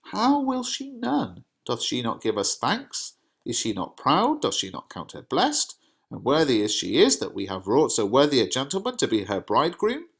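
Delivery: father mildly affronted at her ingratitude; Capulet's indignation. Acted. Reads Capulet's lines.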